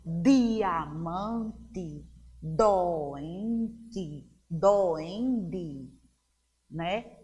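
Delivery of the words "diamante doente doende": drawn-out words with a firm initial D; D com mais intensidade. Shown as a demonstration. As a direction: stretch "Diamante, doente, doende" syllable by syllable, pressing the D. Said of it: "Pronunciamos com mais intensidade". (palavras alongadas, com D intenso)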